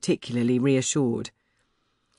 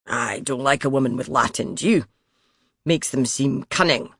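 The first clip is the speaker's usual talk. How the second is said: a light Scots accent, mocking; a Scots king sneering to his courtier. King mocks a learned woman, light Scots accent. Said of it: "His Scots accent".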